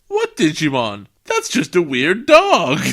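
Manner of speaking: waving off the obvious; mock grandpa brush-off; dismissive grandpa. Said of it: "And he goes".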